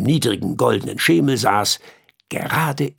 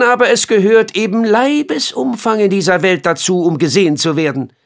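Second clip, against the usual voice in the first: high, louder bitter flea voice; 8 semitones higher, 5 dB louder, faster than usual. Acted. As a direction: complain like a slighted flea. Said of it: "sagte der Floh".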